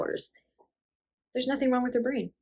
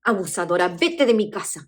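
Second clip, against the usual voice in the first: raised-voice eviction; acted angry mother; 3 dB louder, faster than usual. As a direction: order her out, acting outraged. Mother throws daughter out.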